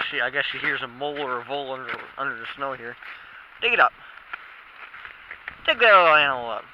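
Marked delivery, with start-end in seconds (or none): 3.6-6.6 talking to the dog. Real, not acted. Encouraging dog.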